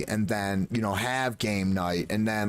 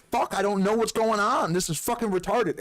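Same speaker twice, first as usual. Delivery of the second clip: mock baffled; 8 semitones higher than usual. Feigning confusion to fellow players.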